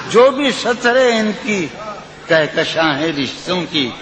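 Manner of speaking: lilting, sung-through recitation of a ghazal; poetry recitation. Acted. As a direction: recite it like at a mushaira. Recites the nazm.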